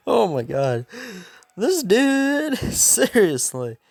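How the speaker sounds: high, loud, incredulous cackle; hammed-up high, laughing exclamation; imitating laughing fit. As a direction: act out cracking up in disbelief. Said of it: "laughing to himself on the inside, dying".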